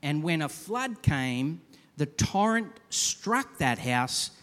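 slow, deliberate Bible reading; scripture reading. Acted. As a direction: read the passage slowly with weight. Reads scripture slowly.

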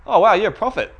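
high, loud hammed-up awe; mock amazement. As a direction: play the woman astonished, voice leaping up. Acts out the woman's amazed reaction.

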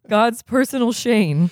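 lightly voiced crooner, drawn out; a famous crooner's voice. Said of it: "the crooner voice for".

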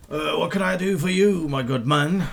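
lightly voiced bartender, mimicking a player; a hint of the player's own voice as the barkeep. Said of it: "why are you imitating my voice?".

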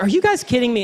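mock disbelief at the disciples; exasperated Jesus. Jesus scolding his bickering disciples, mock exasperated. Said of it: "Jesus is like".

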